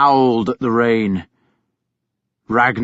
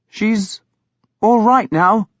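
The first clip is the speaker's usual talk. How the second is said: awkward; 9 semitones higher, slower than usual. A narrator's reading. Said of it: "he said awkwardly".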